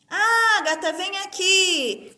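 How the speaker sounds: "Ágata" called out loud and high, stressed on the Á; drawn-out summons, "Ágata" punched on its opening vowel; calling a friend. Shown as a demonstration. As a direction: call a classmate over, leaning on the first syllable of "Ágata". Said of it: "como se eu estivesse chamando um amigo".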